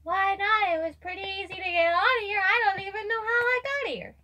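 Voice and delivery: put-on high, chattering little girl; childlike protest, pitched well up; naive girl character. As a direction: play a puzzled kid, high-voiced.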